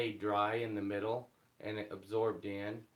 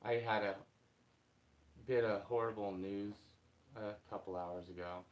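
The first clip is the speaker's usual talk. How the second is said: after crying; 3 semitones lower, 5 dB quieter than usual. Real, not acted. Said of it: "I've been crying a little bit this morning".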